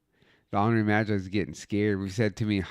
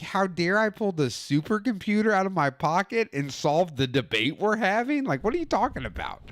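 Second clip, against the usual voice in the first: sarcastic; 7 semitones higher than usual. Retold or imitated. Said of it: "I was like".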